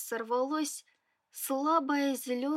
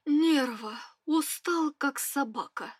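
mumbling into pillow. Acted. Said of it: "едва разборчиво пробормотал он, уткнувшись моськой в подушку".

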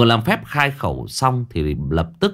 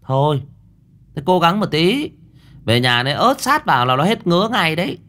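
curt retort; 8 semitones higher than usual. Acted. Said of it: "Cô Thơm sẵn giọng".

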